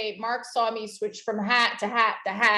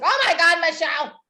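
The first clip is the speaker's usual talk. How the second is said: retold yell; 5 semitones higher, 5 dB louder than usual. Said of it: "she was yelling at me".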